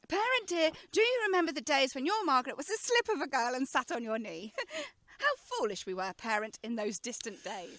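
lightly put-on grown-up airs, with little laughs; grown-up lady talk. Daughter pretending to be grown up to father, mildly affected. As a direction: play at being a dignified young lady, only half serious. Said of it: "I shall talk quite differently".

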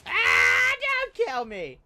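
loud panicked plea; panicked shout. Real, not acted. Gamer about to die, pleading in panic. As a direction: yell it in panic.

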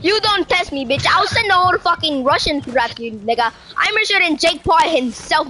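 lightly voiced swaggering billionaire; Elon Musk. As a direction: boast and threaten in a mock-tycoon act. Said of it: "bro, that's so Elon Musk".

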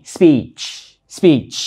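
"speech" with a long stretched ee; đọc "speech" với âm i dài. Shown as a demonstration. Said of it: "Cái nguyên âm chính là y dài y".

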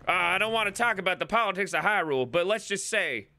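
put-on quick, folksy country accent. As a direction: confide opinions in a country accent. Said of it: "in this accent".

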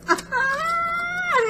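long, high-pitched delighted squeal. Real, not acted. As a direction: squeal with glee, holding it high. Excited squeal on opening package.

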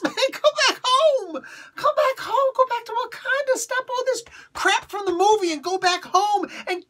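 hammed-up Northern Italian accent, pleading and half laughing; bad Northern Italian accent, loud and tearful; weak Northern Italian accent. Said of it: "a really weak Northern Italian accent".

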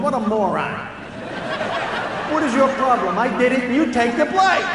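a superior cat mocking the dog; smug cat. Cat in the living room scoffing at the dog, smug. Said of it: "the cat is hanging out in the living room going".

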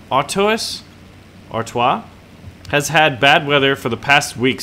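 mission briefing in mock German accent; brief the pilot with a hammy German accent; terrible German accent. Officer briefing pilot before take-off, put-on German accent. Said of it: "terrible German accent".

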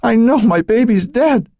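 slow, high anguished wail. A narrator's reading. Mother insists her baby is dead, high slow wail. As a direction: cry it out high and drawn out. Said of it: "she'd wailed".

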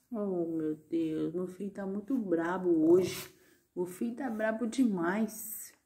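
fond mock lament. Real, not acted. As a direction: coo it fondly under your breath. Fond lament over the grumpy dog.

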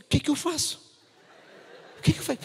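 high nervous panicky question; panicked. Retold or imitated. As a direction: panic under your breath. Panicked inner voice.

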